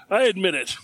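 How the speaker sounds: talking with cheeks puffed out. Real, not acted. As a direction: puff your cheeks and speak through them. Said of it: "My cheeks are even puffed out".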